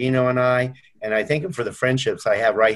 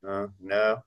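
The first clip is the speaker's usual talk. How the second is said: low, soft, reluctant answer; sheepish admission; 5 semitones lower, 7 dB quieter than usual. Retold or imitated. Client answering the coach's checklist question, sheepish. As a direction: imitate a caught-out client owning up quietly.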